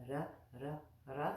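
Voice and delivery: "ra" as short separate syllables with a tapped r; practiced ra sound. Shown as a demonstration. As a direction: demonstrate "ra", one crisp syllable at a time. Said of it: "we've already practiced that".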